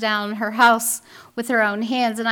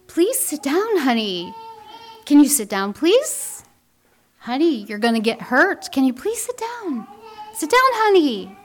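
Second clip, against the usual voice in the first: pleading, rising to higher on please; imploring mom; 3 semitones higher than usual. Retold or imitated. Mom in the store aisle begs her son to sit, pleading. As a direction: beg the boy sweetly over and over. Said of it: "a mom who was imploring".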